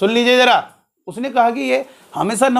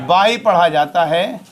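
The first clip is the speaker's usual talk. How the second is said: बाई repeated slowly with weight on बाई; slow emphatic repeat; 2 semitones lower, slower than usual. Shown as a demonstration. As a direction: stress बाई, slow and deliberate. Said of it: "क्या पढ़ा जाता है?".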